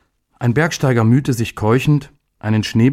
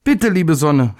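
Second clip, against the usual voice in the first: put-on high childlike plea; high little voice begging; pleading call to the sun; 6 semitones higher, slower than usual. A narrator's reading. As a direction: beg the sun to come out. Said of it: "rief er".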